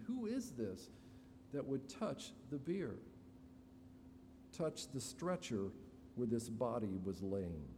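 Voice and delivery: mildly astonished, imitating puzzled onlookers; shocked question. Bearers questioning a man who touches the bier, shocked. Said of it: "My guess is they're shocked".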